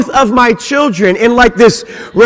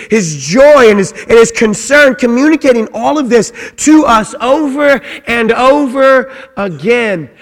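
ordinary delivery

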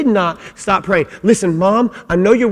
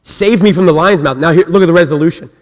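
ordinary talk

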